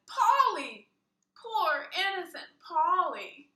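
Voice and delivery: high, loud anguished cry for Polly; a child wailing for his pet pig, loud and high; horrified wail. Acted. Luke's horror about his pig.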